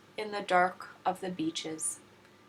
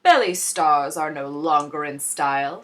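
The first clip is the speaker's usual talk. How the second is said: louder showman's claim; McBean pitch; 2 semitones lower, 7 dB louder than usual. A narrator's reading. McBean announcing a trend, louder. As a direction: sell the new fashion. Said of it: "said McBean".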